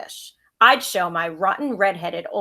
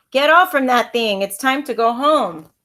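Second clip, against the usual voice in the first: louder call from a distance; 4 semitones higher, 4 dB louder than usual. Acted. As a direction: call her granddaughter off the ride. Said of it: "I heard my Bubby call out".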